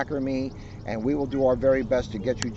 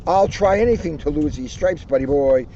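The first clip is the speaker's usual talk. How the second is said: perky Tigger. Acted. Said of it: "Tigger said, perking up".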